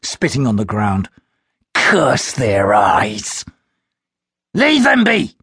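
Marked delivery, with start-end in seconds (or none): 1.7-3.4 slow, hissed whispered curse. A narrator's reading. Vampanese whispers a curse at the wolves, slowly. Vampanese cursing under his breath. 4.5-5.4 high, loud dismissive voice; second Vampanese. A narrator's reading. Second Vampanese tells his companion to leave the wolves, high and loud. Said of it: "a second Vampanese said behind him".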